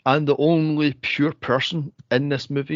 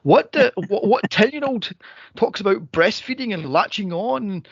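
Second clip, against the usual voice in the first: incredulous outburst; 6 semitones higher than usual. Retold or imitated. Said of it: "I was going".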